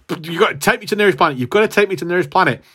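frantic begging. Retold or imitated. Champion begging Thanos.

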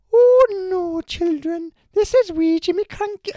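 very high, loud falsetto Scottish granny; Jimmy Cranky voice. Retold or imitated. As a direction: squeal it out like an old Scottish nanny. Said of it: "As we Jimmy Cranky once said".

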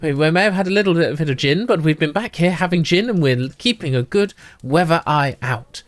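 lightly voiced, hushed gossiping ladies; a hint of two scheming sisters telling a tale; conspiratorial twins. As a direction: lean in and share a secret. GM voicing the twins.

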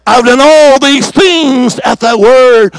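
drawn-out, weighty prayer line; slow solemn quote. Acted. Preacher quoting Elijah's prayer, slow and weighty. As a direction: lay each word down slowly.

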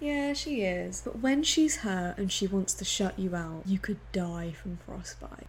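soft, acted hurt; tearful. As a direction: imitate a mother holding back tears. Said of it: "She's tearful and she goes".

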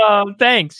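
high, laughing relief; relieved laughing okay. Retold or imitated. Student laughing with relief at his professor's answer, high and giggly. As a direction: laugh it off, pitched well up.

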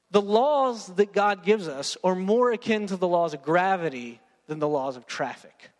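ordinary talk

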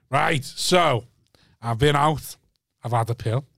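a hint of solemn story-post voice; imitated friend. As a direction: lightly impersonate a mate addressing his followers. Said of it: "Do I sound like that".

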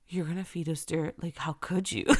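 a hint of little ones aghast; horrified kids. Kids asking mom if she'll feed them dirt, mock horror.

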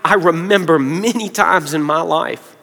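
soft, halting delivery with long pauses; getting emotional. Real, not acted. Preacher recalling hard times to the congregation, getting emotional. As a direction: remember it quietly, holding emotion back. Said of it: "about to get emotional now".

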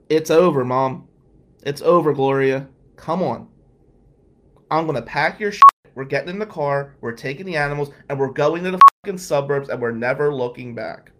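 loud, pushing retold yell at mom; half-shouting it's over at her, firmly; retold screaming. Son and aunt yelling at mom to leave, loud retold shout. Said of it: "Aunt Mary and I screaming at her".

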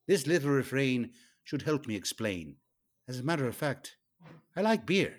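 lightly put-on Irish accent for a dramatic lyric reading. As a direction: read the beer lyrics in a hammed-up Irish accent. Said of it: "I'd like to do this in an Irish accent".

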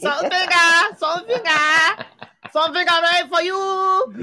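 high, exaggerated Asian accent; put-on high accent, playing along; mock Asian accent. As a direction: push it high in a caricature accent. Copying the mock-accent joke.

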